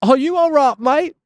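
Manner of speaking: half-hearted try at Duke Nukem's line; Duke Nukem impression. Streamer fumbles a Duke Nukem line, a light mock voice. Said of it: "What does Duke Nukem say?".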